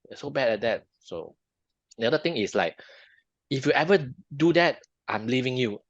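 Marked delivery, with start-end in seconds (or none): 0.1-0.8 higher-pitched mock complaint; criticizing. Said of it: "rather than just look at that thing and say". 3.5-5.8 louder, higher mock ultimatum; raised-voice warning, lightly played; threatening. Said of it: "threatening, threat your, the other half".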